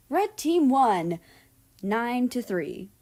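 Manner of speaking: high, loud and slow, celebrating the win; excited cheer. A narrator's reading. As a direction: call out the victory, beaming. Team wins the match.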